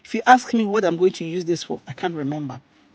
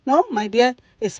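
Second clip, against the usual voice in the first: lightly voiced Indian old man, higher at first, then slowing; 3 semitones higher than usual. Old man correcting her at the shop, lightly imitated. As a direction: gently correct her like an old shopkeeper, stretching "molahai". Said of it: "this Indian old man was like".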